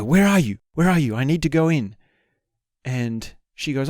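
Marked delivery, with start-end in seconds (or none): 0.0-1.9 urgent. Retold or imitated. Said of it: "by this point I'm bursting".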